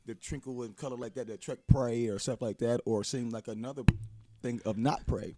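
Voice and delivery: talking around sour candy; words garbled by candy in mouth; mouth full of candy. Real, not acted. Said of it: "having trouble with that microphone".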